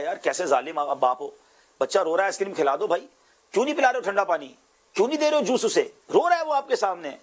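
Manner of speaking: pushy friend, rising in pitch as he nags; friend scolding father. Retold or imitated. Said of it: "وہ کہے". (دوست کی بڑھتی ہوئی تیز اور اونچی ملامت)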